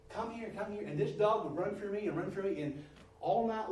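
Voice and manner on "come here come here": soft, higher-pitched dog call; sweet coaxing voice. Retold or imitated. Agitated owner calling the dog home, mock-sweet coaxing. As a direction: coax the dog in an imitated sweet voice. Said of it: "give her the sweetest voice".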